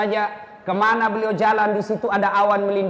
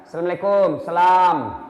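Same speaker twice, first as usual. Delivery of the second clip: sloppy salam; 3 semitones lower, 3 dB louder than usual. Retold or imitated. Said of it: "salamnya tidak ikhlas".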